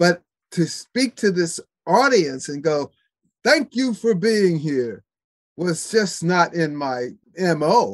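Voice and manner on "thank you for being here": mock effusive, exuberant, high-pitched voice. Recalling speaking to an audience, retelling an exuberant thank-you. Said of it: "I said it in such an exuberant way".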